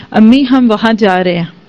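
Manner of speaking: a touch of loving sweetness, lightly retold; lovingly said. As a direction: say it gently, with affection, to mother-in-law. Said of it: "بڑے پیار سے اس نے بولا". (پیار سے، ہلکا سا نرم لہجہ)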